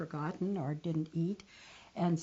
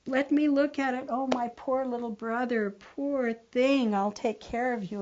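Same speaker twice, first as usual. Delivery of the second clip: caring sister; 6 semitones higher, 3 dB louder than usual. Acted. Sister comforts hurt brother.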